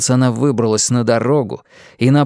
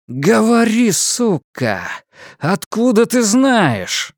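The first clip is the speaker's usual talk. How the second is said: high, slow furious demand; angry; 9 semitones higher, slower than usual. Acted. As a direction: force the answer out of her. Shakes her, demands.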